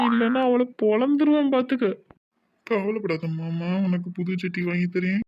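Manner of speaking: two tipsy men stagger home talking nonsense; drunk banter. Acted. Uncle and son-in-law tipsy after drinking, mildly slurred drunk talk. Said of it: "நம்ம தானே சரக்கு போட்டிருக்கோம்".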